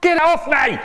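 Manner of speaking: panicked high shout to push them off. Retold or imitated. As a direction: shriek to be let go. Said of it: "Me, I shouted out".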